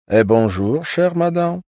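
high, loud aristocratic French greeting; a lightly voiced noble lady hailing Irina; grand lady. A narrator's reading. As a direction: greet like a stately duchess. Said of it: "проговорила особа".

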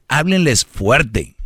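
"háblenles fuerte" marcado y lento; énfasis lento. Shown as a demonstration. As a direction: recalca "háblenles" despacio. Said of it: "¿Qué es hablar fuerte?". (frase enseñada con énfasis)

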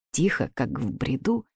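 soft dazed murmur; hushed, far-away voice; quiet, as if delirious. A narrator's reading. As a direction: speak low, as if in a fever dream. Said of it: "говорила Мила".

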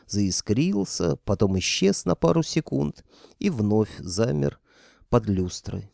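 plain reading voice

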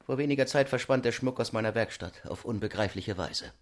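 softened goldsmith's voice; Cardillac in character. A narrator's reading. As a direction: confide a baffling loss quietly. Cardillac berichtet vom Verschwinden. (leise Rollenstimme, vertraulich)

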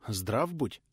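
taken aback. Acted. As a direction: blurt it out, caught off guard. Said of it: "опешив от неожиданности".

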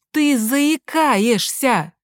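высоко, очень медленно, надрывно; выкрикни в отчаянии; паника. Acted. Та же фраза в панике. (мать в панике кричит сыну, высоко)

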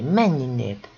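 loud acted cry of dismissal; narrated shriek. A narrator's reading. Méri orders the servant away, crying out loudly. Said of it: "sikoltotta Méri".

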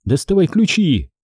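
Jenny screaming at Audrey for the keys; panicked cry. Acted. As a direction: urge yourself, then yell for the keys. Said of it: "крикнула она".

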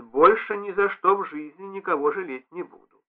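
ordinary delivery

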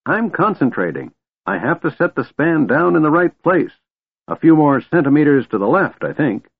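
distracted, pottering old wizard. Fizban voiced by narrator.

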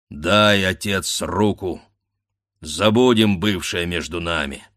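wounded husband calmly blessing his son; lightly voiced tender husband. Danilo's tender farewell.

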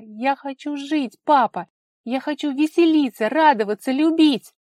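high, loud pleading cry; desperate plea. A narrator's reading. Daughter crying out to her father for freedom, high and loud. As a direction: beg him to let her live.

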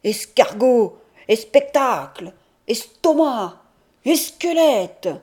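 loud, pointed Auvergne pronunciation; wounding words. A narrator's reading. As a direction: fling each word like an insult. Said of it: "des mots qui le blessent". (mots lancés pour blesser)

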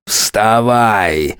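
masked thug growls at him to rise; growled command. A narrator's reading. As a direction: snarl it at the fallen man. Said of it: "прорычали за красной маской".

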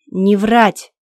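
loud angry yell at a prisoner. Acted. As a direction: yell it down at her. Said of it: "заорал на меня".

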